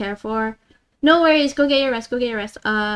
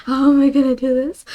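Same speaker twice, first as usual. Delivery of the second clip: louder, rising at the end; exasperated question; 2 semitones higher, 5 dB louder than usual. Real, not acted. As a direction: ask it out loud, at a loss. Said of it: "I don't know how to explain this".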